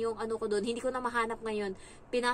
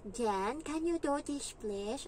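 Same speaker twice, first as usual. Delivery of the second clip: sing-song English; 4 semitones higher, much slower than usual. Retold or imitated. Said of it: "ayoko ng ganyang English".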